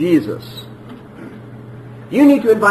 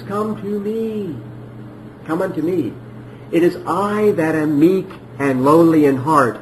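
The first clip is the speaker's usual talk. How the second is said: tender voice of Jesus. Retold or imitated. Voicing Jesus' invitation, quoted scripture.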